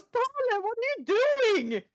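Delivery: very high, incredulous call; shocked outcry. Acted. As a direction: cry out in disbelief at the altar. Groom finds bride at the altar.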